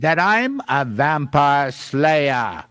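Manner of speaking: slow, swooping cartoon boast; self-important coyote hero; Wile E. Coyote. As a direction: announce it grandly, drawing out each word. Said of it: "I'm gonna be like the Wi-, Wile E. Coyote voice".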